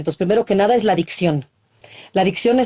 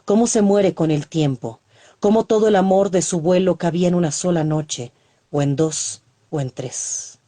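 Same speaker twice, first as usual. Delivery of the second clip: poem recital. Acted.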